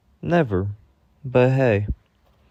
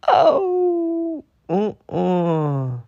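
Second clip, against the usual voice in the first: much higher, loud, sassy "oh, uh-uh"; sassy refusal; 11 semitones higher, 5 dB louder, much slower than usual. Retold or imitated. Answering the praising commenters with sassy disapproval. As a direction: shut them down with sass.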